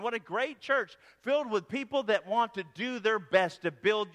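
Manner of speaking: closing prayer. Real, not acted. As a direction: pray over the congregation with conviction. Pastor prays over the church.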